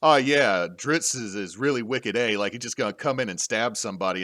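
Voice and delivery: lightly put-on Boston accent, loud opening; terrible impersonation of a Boston author; mock Bostonian, punchy at first then easing off; R A Salvatore. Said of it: "this is gonna be a terrible impersonation".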